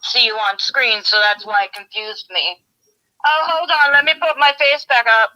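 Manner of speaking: talking without dentures in; gummy speech with teeth out; toothless. Real, not acted. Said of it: "you have me without my teeth in".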